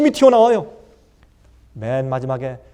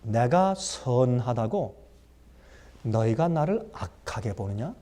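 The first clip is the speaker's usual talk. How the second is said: master's rebuke; 9 semitones lower, 8 dB quieter, slower than usual. Acted. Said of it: "주인께서 말합니다".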